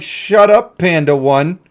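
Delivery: a playful jeering shout; mock heckler shout. Imagined crowd booing the streamer, mock yelling. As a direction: jeer at yourself from the crowd. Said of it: "How about more like".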